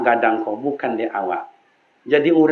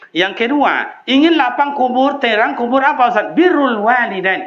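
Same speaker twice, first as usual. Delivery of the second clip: high, loud climactic sermon cry; impassioned sermon peak; full-force preaching; 11 semitones higher, 4 dB louder than usual. Acted. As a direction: lift the congregation with a rising call.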